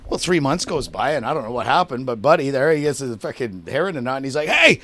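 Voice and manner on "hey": high, loud mock holler; loud, high-pitched retold "hey"; retold angry shout. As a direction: imitate a friend shouting to get attention. Angry friend phones up, retold.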